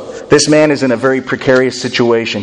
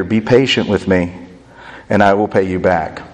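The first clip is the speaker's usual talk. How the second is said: begging; 5 semitones lower than usual. Acted. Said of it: "begged him".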